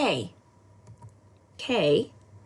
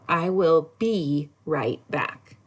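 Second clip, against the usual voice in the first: slow example sentence; 2 semitones lower, slower than usual. Shown as a demonstration. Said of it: "So, like".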